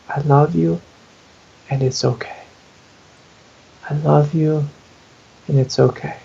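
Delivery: gently repeated, with space between phrases; gentle mantra. Shown as a demonstration. Speaker shows a self-soothing mantra, gentle. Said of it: "you just gently hold this mantra".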